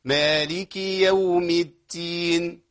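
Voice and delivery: الدين with air escaping so the dal leans toward ta; breathy dal error. Shown as a demonstration. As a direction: let air out on the dal wrongly. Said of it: "همس". (خطأ: همس في الدال فتقرب من التاء)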